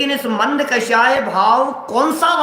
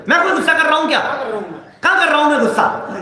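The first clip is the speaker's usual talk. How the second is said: indignant denial; 4 semitones higher, much faster than usual. Retold or imitated. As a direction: play the angry man who swears he isn't angry. Angry man denies his anger.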